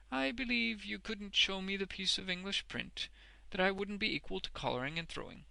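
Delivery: high, self-satisfied character voice; mock-modest. A narrator's reading. Wegg admits his skill at reading, with modesty. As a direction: boast while sounding modest. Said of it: "Mister Wegg admitted, with modesty".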